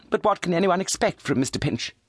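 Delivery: high scornful cry; scornful daughter. A narrator's reading. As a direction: cry out in disdain. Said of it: "cried Charity".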